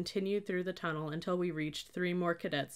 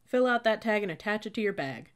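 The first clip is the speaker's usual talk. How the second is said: loud, higher command; roared order; 4 semitones higher, 6 dB louder than usual. A narrator's reading. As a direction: bark it at the recruit. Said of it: "slammed a tag down in front of me and roared".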